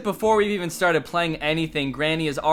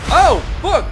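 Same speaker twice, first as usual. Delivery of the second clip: real loud high shout of shock; startled shout; 12 semitones higher, 10 dB louder than usual. Real, not acted. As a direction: jump out of your skin. Jump scare on FaceTime.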